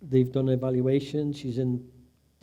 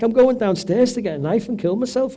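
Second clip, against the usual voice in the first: upset; 8 semitones higher, 7 dB louder than usual. Retold or imitated. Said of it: "She's like".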